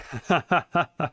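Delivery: short high-pitched laugh; a quick giggle at the comment. Real, not acted.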